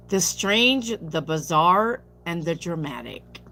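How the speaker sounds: slow, hammed-up spooky reading; mock-theatrical build that fades down; dramatic. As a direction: tease each word like a horror trailer. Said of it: "I was just dramatic just now".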